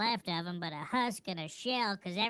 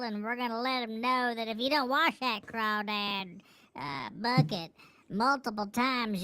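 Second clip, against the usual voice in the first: excited; 4 semitones higher, 3 dB louder than usual. Retold or imitated. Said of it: "so I said".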